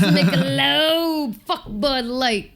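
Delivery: slow, drawn-out ad voice; mock ad read. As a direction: plug the sponsor like a commercial. Joke sponsor plug.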